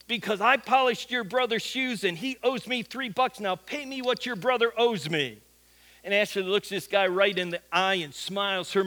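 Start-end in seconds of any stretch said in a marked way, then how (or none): 0.1-5.4 higher-pitched insistent retold demand; pushy demand. Homeless guy tells sister to pay brother's debt, pushy. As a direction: lay out the debt and press for payment. Scammer demands money from Ashley.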